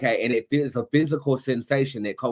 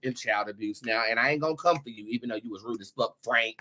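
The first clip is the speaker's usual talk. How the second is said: usual speaking voice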